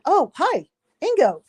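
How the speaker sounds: retold greeting. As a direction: greet him in a lifted voice. Retold greeting to passing celebrity.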